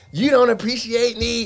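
mocking woman voice. Retelling a late-arrival quarrel, mocking imitation of the lady. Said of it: "I was mocking the lady".

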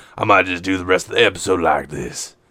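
put-on seedy voice. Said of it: "It's a seedy voice".

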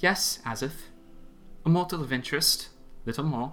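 distracted, fading away. The Mistress answers Azith, her words trailing off absently. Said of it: "though her words trailed off absently".

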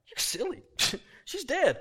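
mock scoffing, scornful laughing jeer. Retelling how the mourners laughed at Jesus: acting out mocking laughter. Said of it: "And they laugh at him".

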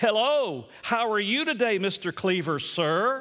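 slow, fake-polite, ingratiating put-on courtesy. Retelling how Eddie greeted the father, imitating Eddie's put-on sucking-up inflection. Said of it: "you could hear the inflection of his voice".

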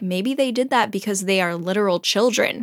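normal talking voice

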